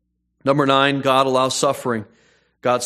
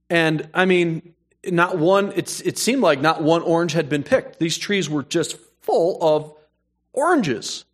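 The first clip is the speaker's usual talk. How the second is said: amazed; 5 semitones higher than usual. Retold or imitated. Marvelling at full orange trees.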